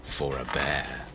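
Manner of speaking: low, deliberate storybook villain; hint darkly in a deep voice; menacing bear. Acted. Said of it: "gave a funny stare".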